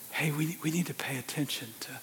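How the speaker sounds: soft unvoiced whisper. Preacher voices his wife whispering in bed, hushed. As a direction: breathe it like a wife at bedtime. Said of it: "She whispers".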